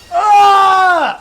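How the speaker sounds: sudden high angry shout; frustrated yell. Real, not acted. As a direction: blurt out a sharp cry of annoyance. Sudden misplay in game.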